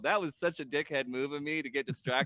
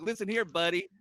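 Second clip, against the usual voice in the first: changed promo voice; 4 semitones higher than usual. Retold or imitated. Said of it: "I don't want him to be Hulk".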